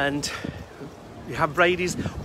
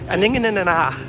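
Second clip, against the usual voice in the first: put-on Dundonian accent; 4 dB louder than usual. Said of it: "forgive my Dundonian accent".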